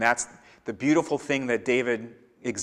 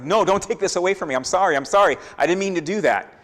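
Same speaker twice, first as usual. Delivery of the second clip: panicked pleading; 6 semitones higher, faster than usual. Retold or imitated. Saul begging to keep power.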